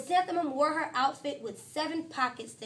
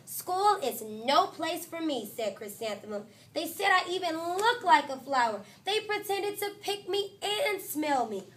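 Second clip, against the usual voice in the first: put-on upset child; 4 semitones higher than usual. Chrysanthemum tells her parents about school in a higher, aggrieved child voice. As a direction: tell your parents how it hurt.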